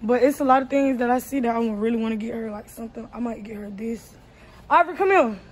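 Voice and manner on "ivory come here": calling out. Real, not acted. Mother calling child over.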